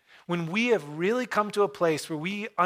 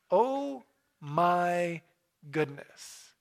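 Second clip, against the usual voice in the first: awed gasp; much slower than usual. Retold or imitated. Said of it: "I talk like that".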